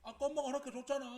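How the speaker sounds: high, very loud indignant whine; aggrieved protest. Acted. Child reminding mum she gave permission, loudly aggrieved. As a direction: protest hotly at being wronged. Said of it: "지금은 억울해요".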